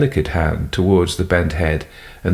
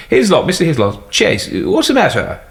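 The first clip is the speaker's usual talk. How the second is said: louder, higher call through a door; 10 semitones higher, 3 dB louder than usual. Acted. Calling through locked door.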